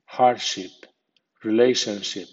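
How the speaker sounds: hardship with ship given a secondary stress; medium stress on ship. Shown as a demonstration. Teacher ends the ship list, medium stress on ship. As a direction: say relationship with ship clear but lighter. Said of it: "ship con acento medio".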